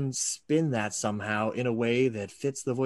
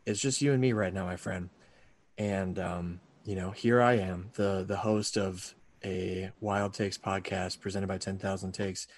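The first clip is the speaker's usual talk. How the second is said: low, intimate sultry murmur; 3 semitones lower, 4 dB quieter than usual. Pretend. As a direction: lean in close and purr it. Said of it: "listen to the sound of my sultry voice".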